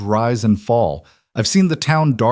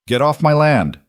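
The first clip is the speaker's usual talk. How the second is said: calm but firm; 7 semitones higher, 4 dB louder than usual. A narrator's reading. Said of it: "still in that same calm voice".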